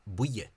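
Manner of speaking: "Buye" said as two syllables, boo-ye; two-syllable pronunciation. Shown as a demonstration. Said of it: "two syllables".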